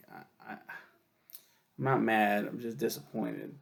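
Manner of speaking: slow, lightly voiced disappointed parent. Scolding smokers slowly like a let-down parent. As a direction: let them down gently like a parent. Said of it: "I'm like".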